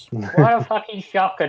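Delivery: chuckling mock disbelief; laughing sarcasm. Real, not acted. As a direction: laugh through the jab. Sarcastic laugh at predictable pick.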